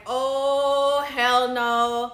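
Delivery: loud, drawn-out indignant protest; outraged refusal. Retold or imitated. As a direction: belt it out in disbelief, re-enacted. Acting out her outraged reaction.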